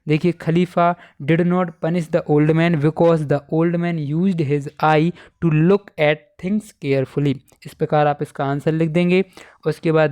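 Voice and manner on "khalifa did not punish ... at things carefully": slow, word-by-word English read-out; dictation reading. Shown as a demonstration. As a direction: read the answer out slowly for students to copy. Reads answer again slowly. (धीरे-धीरे इमला बोलते हुए)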